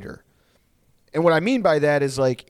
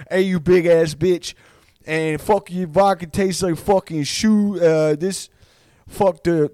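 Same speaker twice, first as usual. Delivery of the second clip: mock belligerent fighter, pitched up; trash-talk in the fighter's accent; Nate Diaz; 4 semitones higher, 4 dB louder than usual. Fighter trashing the sponsor's vodka, mock belligerent. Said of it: "Nate Diaz was like".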